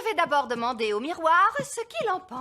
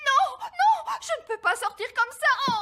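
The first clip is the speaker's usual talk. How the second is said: whining; 7 semitones higher than usual. Acted. Hairstyle ruined.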